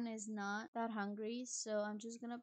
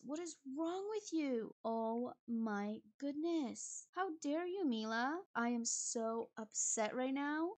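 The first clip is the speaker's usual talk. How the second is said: exasperated. Real, not acted. Player scolding Mila after the food is gone, exasperated. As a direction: tell her off, fed up.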